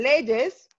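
"leyes" as le-yes with a firm consonant Y. Shown as a demonstration. Teacher shows the normal plural, "leyes" with consonant Y. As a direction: say "leyes" with a buzzed Y starting the second syllable. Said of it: "pronuncio la Y como es".

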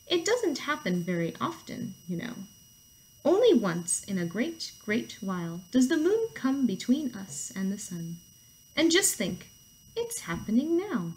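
lightly voiced, unhurried storybook turtle; a hint of a patient turtle; calm turtle. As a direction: explain with slow, gentle wonder.

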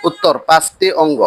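normal talking voice

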